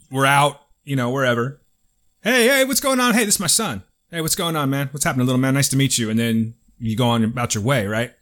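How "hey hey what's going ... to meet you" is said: high, bright hey-man greeting, mild; a hint of a chummy coworker hailing you; friendly coworker greeting. Coworker greeting his buddy's son, lightly hammed-up friendliness.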